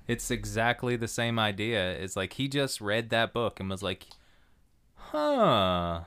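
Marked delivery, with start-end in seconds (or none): 4.9-6.0 put-on Milwaukee accent. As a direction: muse it like a Milwaukee local. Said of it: "like, a Milwaukee accent".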